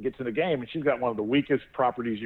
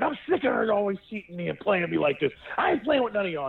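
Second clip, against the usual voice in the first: imitating angry kid; 8 semitones higher than usual. Angry son quoted mid-fight.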